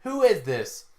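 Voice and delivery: puzzled question. Retold or imitated. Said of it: "looks at the painting and says".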